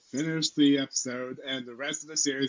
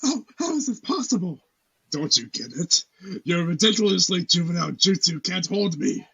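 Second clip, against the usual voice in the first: rising, louder anime villain boast; dramatic anime villain; 3 semitones higher, 3 dB louder than usual. Acted. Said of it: "a dramatic anime, like, anime type delivery".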